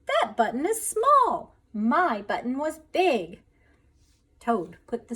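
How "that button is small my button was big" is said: high, loud and slow complaint; upset whine. A narrator's reading. Toad explains to Frog, slow loud whine. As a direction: drag it out, fed up.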